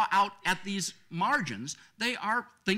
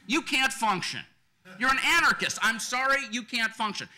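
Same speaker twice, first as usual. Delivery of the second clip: louder and higher, cutting him off hard; forceful rebuttal; 3 semitones higher, 5 dB louder than usual. Acted. Panelist rebutting an imagined white supremacist, forcefully loud. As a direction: shut the argument down with force.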